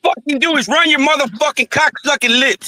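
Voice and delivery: angry, cursing yell. Real, not acted. Man cursing a rival's running mouth, angry yelling. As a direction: yell it in open contempt. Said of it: "Would you stop yelling".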